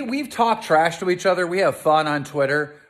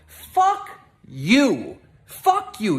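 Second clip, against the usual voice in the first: sudden higher yelled curse; furious outburst; 3 semitones higher, much slower than usual. Real, not acted. Keem cursing at Trisha in a sudden higher furious yell. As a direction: spit it out in a burst of rage.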